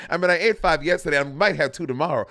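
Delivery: teasing Bob by parodying his wordy entrance line; mocking Bob. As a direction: overblown impression of a drag queen's entrance. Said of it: "that is quintessential Bob".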